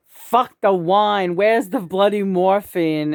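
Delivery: slow, drawn-out mock outburst; frantic poem line. Quoting John's frantic poem to the camera, slow and emphatic. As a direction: read it out big and slow, like huge scrawled letters. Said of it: "in, like, big letters".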